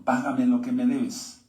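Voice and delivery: a touch of a harsh creditor, slow; demanding payment. Acted. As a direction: press the debt slowly and firmly. Servant choking debtor demanding payment.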